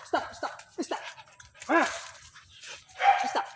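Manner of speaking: hushed stop. Real, not acted. Stopping the pet.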